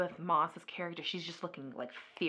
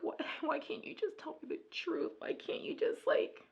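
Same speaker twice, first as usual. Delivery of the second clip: higher, pleading half-cry; mock crying plea; 6 semitones higher than usual. Wife pleading with husband to confess, mock tearful. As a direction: play the tearful wife begging for truth. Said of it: "starts to cry, like".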